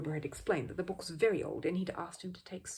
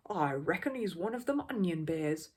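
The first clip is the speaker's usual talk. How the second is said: knowing bystander. Acted. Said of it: "he added knowledgeably".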